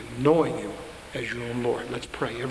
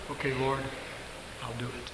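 meek reply; 3 semitones lower, 11 dB quieter than usual. Retold or imitated. Moses humbly answers God.

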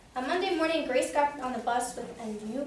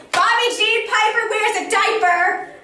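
loud, higher singsong taunt; yelled taunt; 9 semitones higher, 12 dB louder than usual. A narrator's reading. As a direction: yell the rhyme at her. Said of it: "I yelled".

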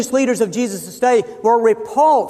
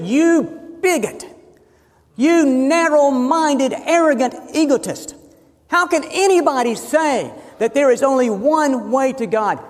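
higher-pitched mock outburst, mildly angry; retold angry tirade, pitched up and emphatic; exploding teacher; 4 semitones higher than usual. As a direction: imitate an indignant teacher lashing out. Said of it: "The teacher exploded".

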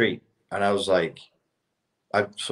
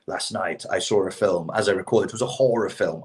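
put-on American-style British accent. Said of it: "the way Lonely Island would do a British accent".

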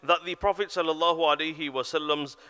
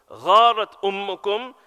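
composed calm; 3 semitones higher, 6 dB louder than usual. Retold or imitated. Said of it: "very composed".

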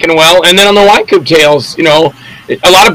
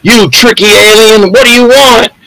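hammed-up B-movie hero; 4 semitones higher than usual. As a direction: play the plucky human hero. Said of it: "do myself talking to myself as the human".

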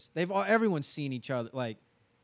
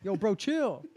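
pitched-up bro pleading with laughs; mock-defensive bro, hands up; frat bro; 6 semitones higher, 6 dB louder than usual. Acting out defensive helper.

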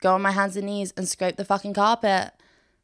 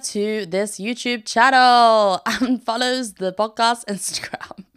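whispered aside; 2 semitones higher, 4 dB louder, slower than usual. Real, not acted. Reveals the driver now subscribes.

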